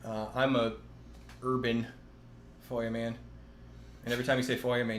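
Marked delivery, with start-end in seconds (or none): 2.7-3.2 fireman as foyaman, no r; a light Boston accent. Pretend. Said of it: "say it like you're from Boston". 4.5-5.0 fireman as foyaman, Boston style; Boston accent. Pretend. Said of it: "say it like you're from Boston".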